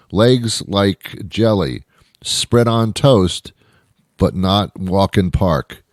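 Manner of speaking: slow, halting proverb voice; mock sage telling a stranger a proverb, slow. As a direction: intone the nonsense slowly like a sage. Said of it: "Why are you talking like that?".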